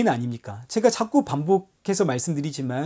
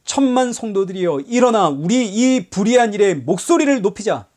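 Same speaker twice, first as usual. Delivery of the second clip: mock rallying cry; 3 semitones higher, 3 dB louder than usual. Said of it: "세상을 향해 목소리부터 높입니다".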